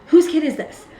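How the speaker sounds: high-pitched retold call; calling out indignantly. Mother looking around for the parent, calling out indignantly. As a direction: demand it of the whole room.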